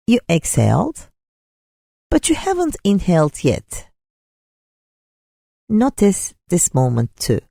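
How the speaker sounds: unhurried meditation guide, long pauses between phrases; guided meditation. Real, not acted. Teacher leading listeners through a breathing practice, guided meditation. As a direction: guide them gently through breath and imagery.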